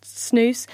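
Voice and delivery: "snus" with long oo and hissed s; pronouncing snus. Shown as a demonstration. Reporter settles how it is said, long-oo "snus". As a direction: say "snus" as snooss, to rhyme with goose. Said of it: "I think it's meant to be pronounced".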